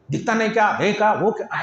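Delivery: snapping as if cursing a clumsy wife; a touch of a scolding husband; mock angry scolding. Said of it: "चार पांच गालियां बकते". (नकली गुस्से में डांटना)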